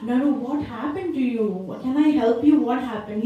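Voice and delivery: lightly acted sweet concern; a touch of motherly coaxing; very sweetly. Mother to her son in the evening, very sweetly. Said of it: "and very sweetly".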